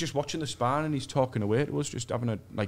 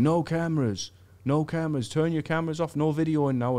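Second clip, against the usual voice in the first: imitated announcement; 4 semitones higher than usual. Gym staffer warning everyone before the champ arrives, mock announcing. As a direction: issue the ban as a lightly mimicked call. Man walking round giving orders.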